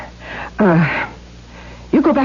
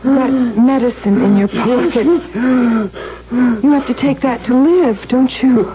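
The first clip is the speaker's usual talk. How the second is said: taunting; 3 semitones higher than usual. Acted. Taunts father over medicine.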